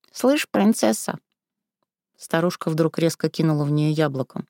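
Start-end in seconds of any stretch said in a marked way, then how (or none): 0.1-1.2 slow, higher sneering granny; a crone's mocking call; mocking old woman. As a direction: drag the word out with scorn. Old woman mocks her.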